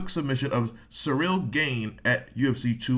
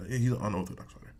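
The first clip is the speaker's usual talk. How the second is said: He's an unorthodox fighter, muttered fast and softer; muttered repeat; 2 semitones lower, 5 dB quieter, faster than usual. Real, not acted. Repeating his point about Saint Preux, fast and softer. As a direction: toss the repeat off quickly under the breath. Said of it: "That Saint Preux".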